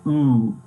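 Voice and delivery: "oo" as the German O-umlaut sound; umlaut vowel. Shown as a demonstration. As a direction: hold "oo" as a rounded umlaut vowel. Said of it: "the umlaut on the O".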